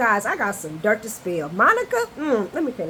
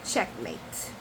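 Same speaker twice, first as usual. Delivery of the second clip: smug; slower than usual. Retold or imitated. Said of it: "And I wrote".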